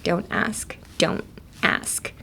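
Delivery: trailing down to a whisper; softly fading don't ask. Shown as a demonstration. Teacher repeats don't ask, fading out. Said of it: "The T is silent".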